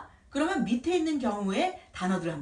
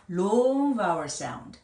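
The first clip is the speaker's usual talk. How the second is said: "long" held to echo a long vowel; drawn-out long; 3 dB louder, much slower than usual. Shown as a demonstration. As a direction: stretch out the word "long". Names long vowels, stretching the word. ("long"을 길게 늘여서)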